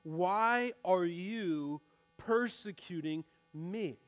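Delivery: drawn out slowly, word by word; slow, deliberate question. Retold or imitated. Jesus asks Saul on the ground, slow and grave. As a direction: weigh every word of the question. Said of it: "he says those words".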